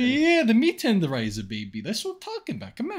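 hammed-up New Jersey tough-guy accent. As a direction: lay on a mock New Jersey accent, gloating. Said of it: "What's that awful accent you're trying to do?".

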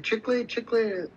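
put-on high, sing-song child's call; a street kid hawking gum; little kid peddling. Street kid offering gum to a stranger, high and sing-song.

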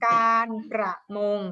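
การประมง said syllable by syllable; careful, evenly measured การประมง for pupils to spell; dictation. Shown as a demonstration. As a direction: dictate การ-ประ-มง with each syllable clearly separated. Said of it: "ฟังดีๆนะ คำนี้หลายพยางค์เลย".

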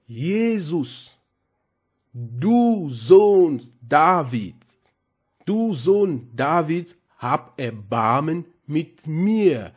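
slow, drawn-out plea for mercy, only lightly voiced; blind man pleading. Blind beggar asking Jesus not to pass by, slow pleading. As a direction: beg slowly, pressing each word. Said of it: "Und er sagte".

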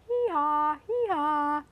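playful mock bray, held up; hee-haw like a donkey for the kids. Naming the animals with the kids, a playful bray. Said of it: "A donkey saying".

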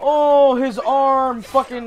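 high, rattled exclamation; scared. Real, not acted. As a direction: still reeling from a jump scare. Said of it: "scared the shit out of me".

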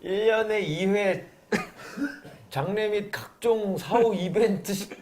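laughing. Real, not acted. Reads an absurd contract aloud.

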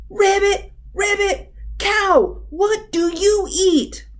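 high-pitched, excited little frog voice; loud frog shout. A narrator's reading. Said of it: "The big mouth frog shouted".

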